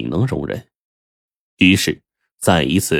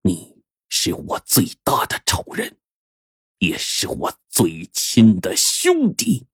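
slow, weighted, one word at a time; 4 dB quieter, slower than usual. Acted. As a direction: drop each word slowly and heavily. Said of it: "齐老六一字一顿地说".

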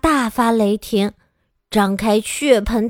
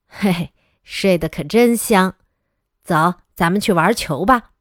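laughing dad; 5 semitones lower than usual. Acted. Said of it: "爸爸笑着对我说".

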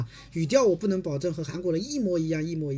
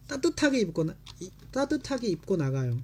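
fast repetition; 2 semitones higher, much faster than usual. Shown as a demonstration. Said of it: "就这样就行了啊".

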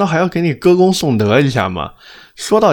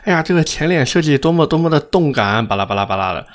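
mocking sales pitch; 4 semitones higher than usual. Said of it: "说".

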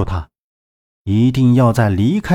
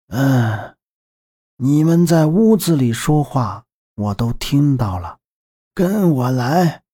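put-on old woman voice. Old grandmother character speaks.

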